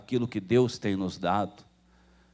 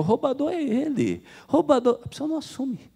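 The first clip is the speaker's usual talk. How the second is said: much higher, outraged mock protest; indignant retort; 13 semitones higher than usual. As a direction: play the offended member throwing it back. Offended member insults the pastor. (protesto indignado e agudo)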